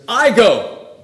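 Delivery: "I go" with weight on the "I"; "I go", the "I" stressed and drawn out; emphatic I. Shown as a demonstration. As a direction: lean hard on "I" in "I go". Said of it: "It is emphatic in the sentence".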